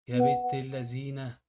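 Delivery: slow, drawn-out impressed exclamation; slow amazed exclamation. Real, not acted. After a hidden-money trick, slow impressed exclamation. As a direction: savour it, truly impressed.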